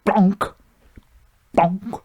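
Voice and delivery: short, dull thud made with the voice; imitated dull bonk. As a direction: mimic heavy gold dropping on a desk. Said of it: "It's gold. It makes a".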